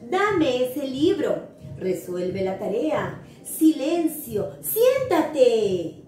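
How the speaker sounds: slow, firm commands; a mild teacher's order to sit down; giving orders. Shown as a demonstration. Teacher demos commands to the class, slow and firm. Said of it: "Para dar órdenes".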